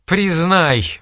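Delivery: high, loud wailing cry. A narrator's reading. Old man wails at his son, high and loud. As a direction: wail it at your son. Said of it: "вопил старик".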